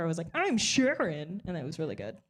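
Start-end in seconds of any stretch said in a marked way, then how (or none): 0.3-1.4 mocking impression. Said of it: "I just made fun of her".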